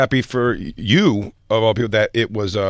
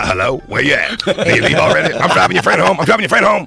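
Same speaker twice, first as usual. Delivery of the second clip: mock angry woman; 5 semitones higher, 3 dB louder than usual. Mocking the jilted woman.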